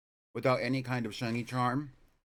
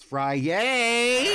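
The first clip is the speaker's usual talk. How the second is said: squealed word; 11 semitones higher, 7 dB louder than usual. Acted. Joke name for the day.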